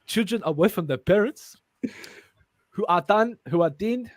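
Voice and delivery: attempted South African accent. Reader stumbling through the script, South African accent. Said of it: "work on my South African accent".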